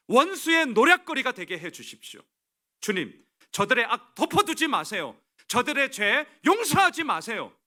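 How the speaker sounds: loud, high, forceful plea to God; fervent indignant prayer. Acted. Preacher acts out Nehemiah's prayer against mockers, loud and indignant. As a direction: cry out to the Lord, demanding justice. Reads angry prayer aloud.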